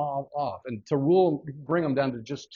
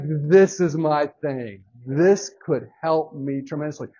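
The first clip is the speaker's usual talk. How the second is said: excited discovery; 6 dB louder, slower than usual. Retold or imitated. Acts out delight at discovering plan.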